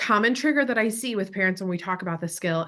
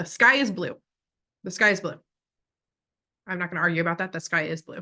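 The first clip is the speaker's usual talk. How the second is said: calm, assertive, certain delivery, no doubt; 2 semitones lower than usual. Showing parents the voice to use with their kids: calm assertive voice. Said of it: "we want to use an assertive voice".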